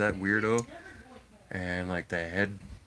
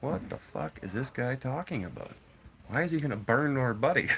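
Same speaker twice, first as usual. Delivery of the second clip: retold bewilderment; 4 semitones higher than usual. Retold stunned campers' reaction.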